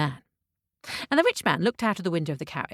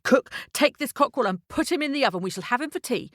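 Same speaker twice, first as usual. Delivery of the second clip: mildly raised, commanding order; livid rich man; 3 semitones higher than usual. Acted. Rich man to his cook about the cockerel, mildly livid. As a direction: give a stern order with understated anger. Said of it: "he was livid".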